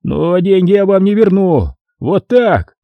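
high, gloating caretaker voice; злорадный смотритель. A narrator's reading. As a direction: crow it like a spiteful caretaker. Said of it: "Злорадно ухмыльнулся он". (злорадно, высоким голосом смотрителя)

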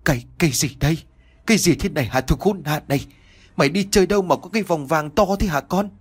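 put-on trembling old father demanding answers; furious father confronting his thieving son; shaky interrogation. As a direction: stammer the accusing questions. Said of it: "cật vấn con trai".

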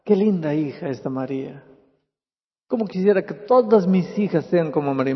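mild voice of God. Acted. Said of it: "¿Será eso que Dios está diciendo?".

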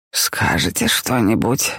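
put-on low, slow tired old man. A narrator's reading. Helmut voiced in the story.

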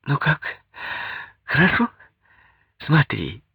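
put-on happy young wife. A narrator's reading. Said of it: "сияющая, счастливая Наташа".

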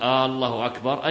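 الله أكبر opened with a long questioning آه; lengthened hamza at the start of الله; stretched hamza. Shown as a demonstration. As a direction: draw out the first vowel, آه, before الله أكبر. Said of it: "استفهاما".

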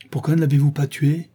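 woman hissing at James Vane; hissed. A narrator's reading. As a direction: spit the question at him. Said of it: "siffla-t-elle".

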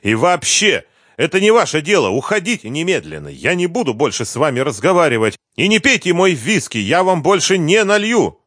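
high-pitched angry tirade; beside himself. A narrator's reading. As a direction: lose your temper and order them out. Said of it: "выходя из себя".

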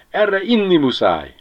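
high, insistent cry; exclaiming. A narrator's reading. Ribiszke insists they drink to it, exclaiming. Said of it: "kiáltotta a végén".

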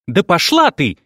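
loud, high angry bark. A narrator's reading. Rita barks at Karina and throws down the receiver. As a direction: snap it out before slamming the phone. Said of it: "рявкнула Рита".

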